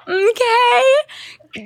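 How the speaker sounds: high, rising "okay"; my signature "okay". Shown as a demonstration. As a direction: squeak out a surprised "okay". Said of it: "The amount of times I go".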